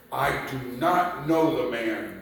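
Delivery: firm denial at normal pitch, stress on not; sworn denial. Acted. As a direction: say it flatly with sworn firmness. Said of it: "invoke a curse on himself and to swear".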